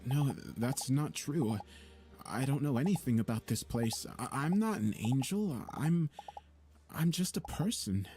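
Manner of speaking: rising panicked voice; frightened denial. Acted. Protagonist denies being angel.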